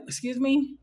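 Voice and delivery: retold disbelief at his nerve; taken aback. Patient to forward orderly, taken aback.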